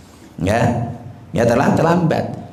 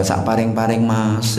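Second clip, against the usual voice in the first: beggar's plea; 3 semitones lower than usual. Acted. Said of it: "kata orang Jawa".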